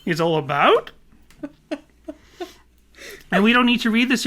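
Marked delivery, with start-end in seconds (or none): 0.1-0.9 light mock Australian accent, rising end; Dinny. Podcaster repeats interviewer's line, mock Australian accent. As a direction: lilt up like a bad Aussie impression. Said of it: "in my Dinny impression".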